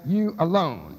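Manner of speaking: "you" stressed in "you alone"; stress on the supplied word. Shown as a demonstration. Lecturer showing which word is italicized, stressed. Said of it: "just to emphasize the word".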